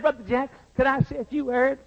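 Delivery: little southern drawl. Retold or imitated. New convert asking her pastor to speak, southern drawl. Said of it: "she said in a little southern drawl".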